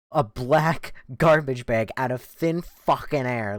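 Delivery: ordinary delivery, nothing marked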